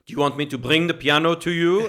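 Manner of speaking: a loud, hammed-up French accent on the question. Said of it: "very thick French accent".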